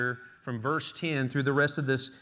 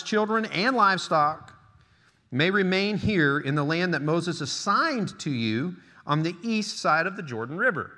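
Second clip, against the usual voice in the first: emphatic preacher reading the Bible aloud; scripture reading; 4 semitones higher, 4 dB louder than usual. Acted. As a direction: proclaim the verse to the congregation, raised pitch. Reads scripture aloud to congregation.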